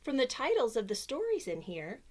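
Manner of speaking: lively storybook reading voice; reading to children. Acted. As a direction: read it like bedtime story time. Reads picture book aloud.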